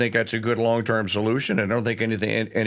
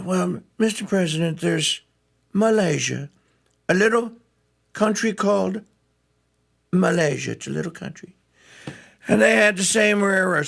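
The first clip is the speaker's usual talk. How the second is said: Marco quote; 7 semitones higher than usual. Retold or imitated. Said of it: "Marco said".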